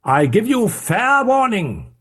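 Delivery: stern demand. Acted. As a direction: warn him gravely, each word weighed. Utterson threatens through the door.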